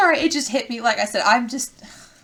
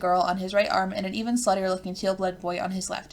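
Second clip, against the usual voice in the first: measured game narration read aloud; story narration; 2 semitones lower than usual. A narrator's reading. Narrator introduces the troll approaching Lanera, measured storytelling. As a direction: read it out as a storyteller describing a scene.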